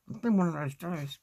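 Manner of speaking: talking with a pin in the mouth. Real, not acted. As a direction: speak round a pin held in the lips. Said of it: "I got a pin in my mouth".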